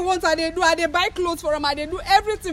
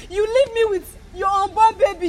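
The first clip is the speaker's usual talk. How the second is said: crying. Acted. Woman recounting betrayal, crying.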